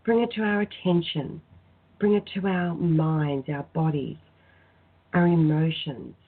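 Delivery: spoken prayer. Acted. Healer leading listeners in prayer to Raphael, measured and devout. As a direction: call on Raphael gently, like praying aloud.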